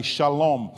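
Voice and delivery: "shalom" with "sh" and long "o": sha-LOME; Hebrew pronunciation. Shown as a demonstration. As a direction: say "shalom" as in Hebrew, weight on LOM. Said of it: "the Jews in Hebrew".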